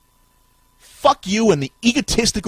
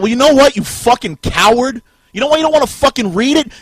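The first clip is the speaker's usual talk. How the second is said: building from loud to a slow screamed scum; furious yell; 4 semitones higher, 9 dB louder than usual. Real, not acted. Ranting at Robert, building into a furious scream. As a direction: drag out scum in a roaring shout. Raging at a named person.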